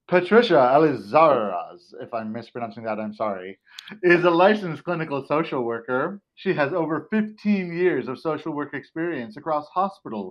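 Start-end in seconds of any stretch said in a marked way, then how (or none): 6.3-10.3 put-on, pitched-up radio broadcast announcer voice. Introducing a licensed clinical social worker's background: put-on radio announcer voice. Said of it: "So radio announcer voice on".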